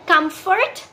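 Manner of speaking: कंफर्ट said as kum-fort with the r; kum-fort, r sounded, rising; base word shown. Shown as a demonstration. Teacher contrasting the base word comfort for students. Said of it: "बिल्कुल silent हो जाती है".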